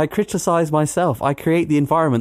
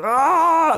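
comic high "ah" burst; mock power-up yell; 11 semitones higher than usual. Friends joking about steroids as game boosts, mock power-up yell. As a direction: yell like a strength boost kicks in.

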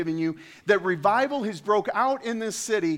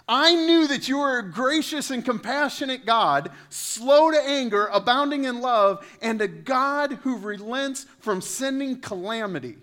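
higher and louder, sneering at God's mercy; mocking Jonah; 7 semitones higher, 6 dB louder than usual. Preacher mocking Jonah's complaint to God, loud and whiny. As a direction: whine it like a sulking prophet.

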